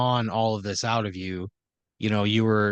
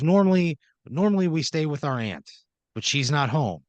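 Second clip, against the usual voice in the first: higher-pitched, lively explanation; animated brother; 5 semitones higher than usual. Acted. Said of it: "he's, like, a little more animated".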